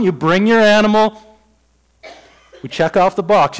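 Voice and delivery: a patient God pushing the deal harder; insistent God. Retold or imitated.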